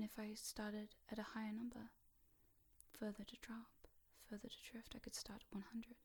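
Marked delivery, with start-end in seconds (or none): 3.0-6.0 soft, hushed drifting voice; hypnotic lull. Real, not acted. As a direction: gently coax them further down. Lulling the listener down.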